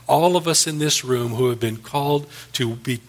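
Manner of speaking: earnest, measured pastor's prayer; closing prayer. Acted. Pastor praying for the congregation and nation, earnest prayer. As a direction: pray it over the congregation, steady and sincere.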